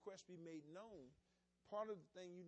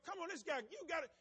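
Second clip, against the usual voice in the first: higher and louder, exasperated urging; impatient driver; 8 semitones higher, 6 dB louder than usual. Retold or imitated. Driver stuck behind an undecided customer, impatient.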